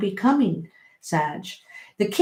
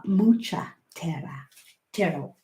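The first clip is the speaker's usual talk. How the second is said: Spanish accent; 3 dB quieter than usual. Shown as a demonstration. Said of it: "I was saying it with Spanish accent".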